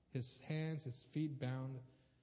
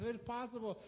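pleading prayer; 7 semitones higher than usual. Retold or imitated. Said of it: "he says it three times".

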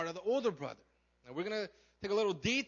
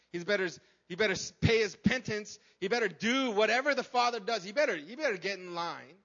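imitating stern, demanding Pharisees, louder; mock-indignant demand for penance; 7 dB louder than usual. Voicing Pharisees wanting the sinner punished.

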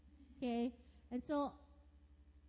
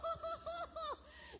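high laugh, falling away; 3 dB quieter than usual. Real, not acted. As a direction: laugh at the memory. Laughing at her own story.

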